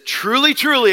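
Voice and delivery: "Truly, truly" declared firmly, each word stressed; emphatic declaration. Retold or imitated. Jesus affirms the truth of his words, emphatically stressing "Truly, truly". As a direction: land weight on both words of "Truly, truly". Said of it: "declaring emphatically".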